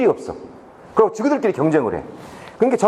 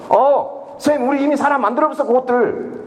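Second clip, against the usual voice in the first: higher, eager retold report; imitated boastful student; 5 semitones higher than usual. Students tell teacher they already reformed the thieves, imitated boasting. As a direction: mimic a kid announcing it to the teacher.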